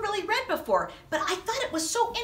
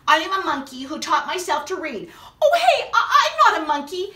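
laughing disbelief; 4 dB louder, faster than usual. Acted. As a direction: laugh while denying it. Forced to read silly lines.

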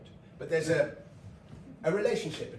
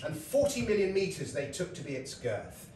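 recited verse. Shown as a demonstration. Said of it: "he wrote this piece of verse".

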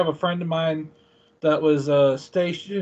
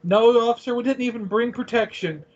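higher-pitched imitation of a cheeky mom; joking mom; 6 semitones higher than usual. Mom joking to the immigration officer, imitated cheeky voice. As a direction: voice a mom's naughty joke, pitched up. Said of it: "My mom turned it into a dirty statement".

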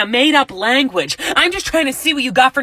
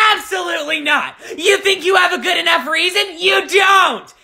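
mocking a strict counselor; 5 semitones higher than usual. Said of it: "they would be like".

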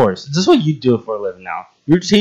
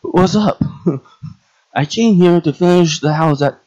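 put-on higher-pitched, amateur Russian accent; 6 semitones higher than usual. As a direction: try on a rough Russian accent. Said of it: "let me do my Russian accent".

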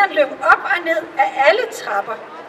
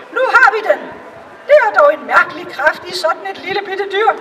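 a lightly raised, excited courtier voice; eager courtiers; 4 semitones higher than usual. Acted. The courtiers hear the cow lowing and cheer, lightly excited. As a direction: sound sure you've found it at last.

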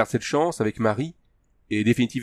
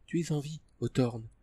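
Tania; 4 semitones higher, 8 dB quieter than usual. A narrator's reading. Tania speaking to Hawthorne.

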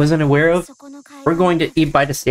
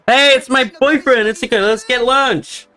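leer it out in a much higher creepy voice; 9 semitones higher than usual. Acted. Friend teasing Itsuka as his boyfriend, in a high creepy voice. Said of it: "give that creepy voice a rest".

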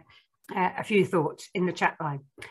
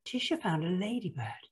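picture-book narration; 4 dB quieter than usual. Acted. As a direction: read it to small children, spacing out the count.

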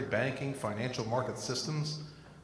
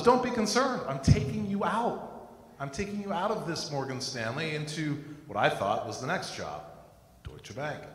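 voice of God; 3 semitones higher than usual. Retold or imitated. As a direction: speak as God comforting him. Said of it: "And God's response was".

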